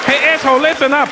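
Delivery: a touch of a bossy captain; gruff captain. Acted. Chinese team captain in the huddle, mock bossy call. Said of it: "You see the Chinese team?".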